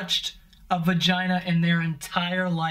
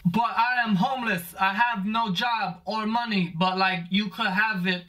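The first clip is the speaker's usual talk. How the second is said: lightly voiced humble homeless man; a slow, humble offer, only hinted at. Comic voicing the homeless man in a prank video, mild humble voice. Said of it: "the homeless guy's like".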